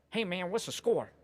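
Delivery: high, drawn Southern yokel voice; Southern accent of a pushy onlooker. Retold or imitated. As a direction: do the smoky local guy's Southern twang. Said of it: "that was a good accent there".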